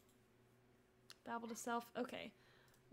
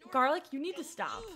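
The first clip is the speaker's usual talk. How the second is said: louder firm warning; firm command; 2 semitones higher, 5 dB louder than usual. Real, not acted. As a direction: call him out sharply. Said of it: "repeated softer".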